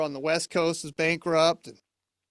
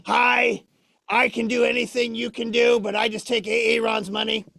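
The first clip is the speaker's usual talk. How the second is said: loud greeting easing into usual volume; mocking Orb impersonation; 4 semitones higher, 3 dB louder than usual. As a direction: mimic the puppet emphatically. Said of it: "I'm gonna do it again anyway".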